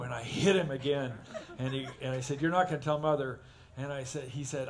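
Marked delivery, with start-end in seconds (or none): 2.4-3.4 louder, threatening big brother; mock threat. Big brother threatening little brother, louder. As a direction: lean on not like a bully.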